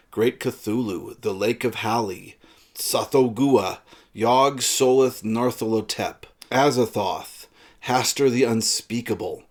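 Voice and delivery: measured, emphatic reading aloud from a horror tale; story reading. Acted. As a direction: intone each fearsome name, set apart by pauses. Reads a passage from the story.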